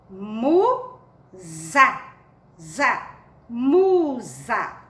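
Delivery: "Musa" como "muuu... za", com Z vibrante; leitura silabada. Shown as a demonstration. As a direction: separe "Musa" em sílabas e repita o "Za". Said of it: "Um M com U". ("Musa" silabado e alongado, com som de Z)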